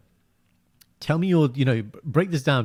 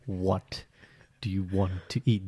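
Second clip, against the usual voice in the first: soft patient ask; 4 semitones lower, 6 dB quieter, slower than usual. Retold or imitated. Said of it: "This is my opposite".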